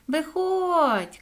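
high, stretched-out shout; calling out. A narrator's reading. Соня orders the echo out of the manhole, calling high. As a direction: call someone out of a hole. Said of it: "крикнула Соня".

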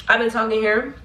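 slightly winded from talking; a little short of breath. Real, not acted. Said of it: "I gotta catch my breath".

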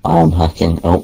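a little squeak in the voice; voice crack. Real, not acted. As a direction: voice cracking mid-protest. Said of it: "Little voice crack".

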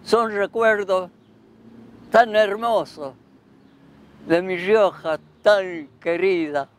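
spoken verse, each line set apart; reciting his verse. Shown as a demonstration. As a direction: recite it like a cherished poem. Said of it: "el verso más bonito de todos los tiempos".

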